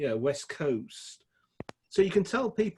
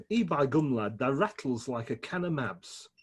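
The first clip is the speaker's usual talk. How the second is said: put-on broad Sheffield accent. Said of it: "they spoke with a broad Sheffield accent".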